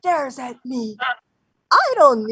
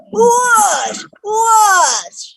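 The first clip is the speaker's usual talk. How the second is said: high, loud swooshing game cry; playful whoosh; 6 semitones higher, 5 dB louder than usual. Retold or imitated. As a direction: swing it out loud like a weapon. Grandma mimics swinging the cudgel.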